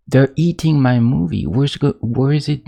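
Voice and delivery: half-joking alarm as the film slips away; desperate. Retold or imitated. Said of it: "you get more and more desperate".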